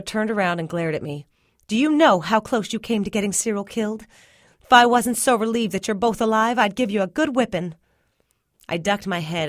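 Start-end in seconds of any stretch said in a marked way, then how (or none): 1.7-7.7 mildly raised, scolding mother, a bit louder; half-stern telling-off of a reckless child; lightly voiced mother scolding her child in relief; scolding Mama.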